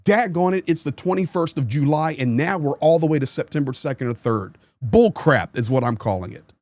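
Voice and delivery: fed-up Republican venting about broken promises; real anger. Real, not acted. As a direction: vent the outrage upward. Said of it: "I'm mad today".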